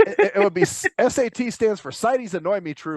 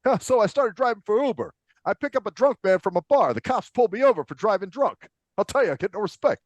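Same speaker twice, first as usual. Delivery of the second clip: Rodney Dangerfield impression; 3 semitones higher than usual. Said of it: "we always do the Rodney Dangerfield thing".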